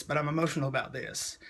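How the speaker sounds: mean it quietly this time; a real touch of emotion; sincere, emotional. Real, not acted. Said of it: "it makes me emotional right now".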